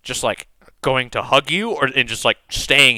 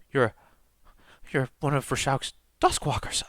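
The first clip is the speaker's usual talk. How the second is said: awed priestess; 2 semitones higher, 7 dB quieter than usual. Acted. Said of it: "replaced with wonder".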